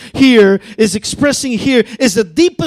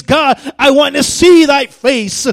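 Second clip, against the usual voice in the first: passionate plea; 4 semitones higher, 5 dB louder than usual. Acted. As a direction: call out with longing.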